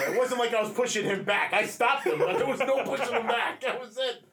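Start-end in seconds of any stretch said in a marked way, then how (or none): 1.5-4.2 laughing. Real, not acted. Laughing at own story.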